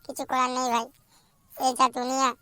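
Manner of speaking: lightly moaning that they will never marry; mock sad lament. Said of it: "কাঁদিস না ভাই".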